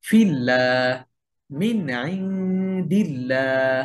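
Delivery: slow recited "ফিল্লাহ" with a light "llaa"; thin lam. Shown as a demonstration. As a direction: hold each "ল্লাহ" long and thin, as "laa". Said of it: "পাতলা করে পড়বো". ("ল্লাহ"-এর লাম পাতলা করে, লম্বা টানে)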